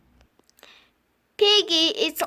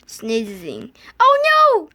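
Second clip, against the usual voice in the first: alarmed; 4 semitones lower, 5 dB louder than usual. Acted. Sudden worry.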